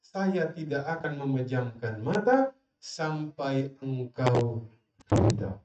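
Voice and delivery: slow gentle wife's vow; tender vow. Acted. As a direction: linger on each word like a pledge. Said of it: "Dia bilang apa?".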